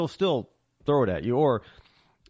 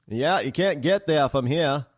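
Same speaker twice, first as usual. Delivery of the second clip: slowed-down Maine accent; 3 dB louder than usual. Shown as a demonstration. Contrasting Maine with Boston for listeners, slow Maine accent. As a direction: stretch it out in a slow Maine drawl. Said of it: "cadence slows down. Sounds more like this".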